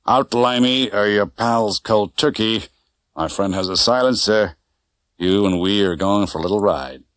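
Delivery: lightly voiced cold gangster. Gangster with gun.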